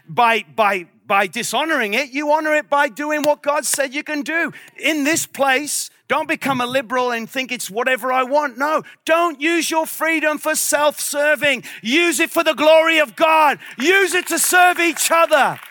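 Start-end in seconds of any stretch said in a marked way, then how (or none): 4.8-15.6 sermon rising to a loud, high charge; preaching, building. Real, not acted. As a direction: build to a forceful exhortation.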